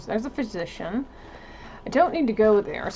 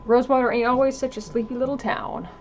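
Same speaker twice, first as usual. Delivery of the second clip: slightly raised voice for an official greeter; lightly voiced small-town greeter giving a caution; 4 semitones higher, 5 dB louder than usual. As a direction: play a folksy greeter, pitched a touch up.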